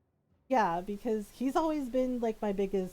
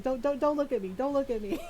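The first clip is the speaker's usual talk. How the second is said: higher, stammering mock plea; embarrassed plea; 4 semitones higher, faster than usual. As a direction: imitate a bashful husband begging not to be watched. Tearful husband embarrassed, retold.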